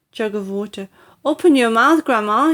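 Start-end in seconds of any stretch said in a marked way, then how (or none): 1.2-2.5 a higher, louder urgent call; cried. Acted. George with a jug of water: urgent higher call. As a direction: call over the smoke urgently. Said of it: "he cried".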